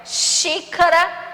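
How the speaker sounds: "xícara" slow, stressed xí; slow teaching read. Shown as a demonstration. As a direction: read "xícara" slowly, leaning on xí. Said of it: "ler agora algumas palavras". (devagar, com força no "xí")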